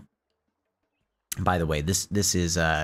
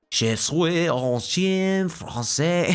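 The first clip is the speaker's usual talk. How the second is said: put-on slow, higher French-accented line; 4 semitones higher, much slower than usual. Gamer voicing the French dog, slow French accent. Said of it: "the dog had a French accent".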